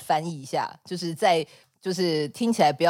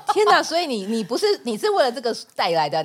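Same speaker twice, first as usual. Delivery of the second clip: surprised; 6 semitones higher than usual. Real, not acted. Disbelief at the book.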